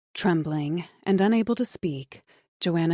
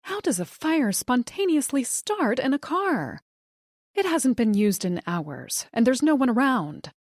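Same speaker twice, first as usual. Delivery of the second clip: anxious; 6 semitones higher than usual. A narrator's reading. Distraught wife asks dispatcher.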